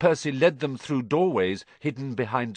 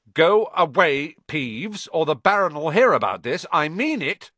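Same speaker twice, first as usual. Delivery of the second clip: barked warning; 5 semitones higher, 5 dB louder than usual. A narrator's reading. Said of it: "barked Percy".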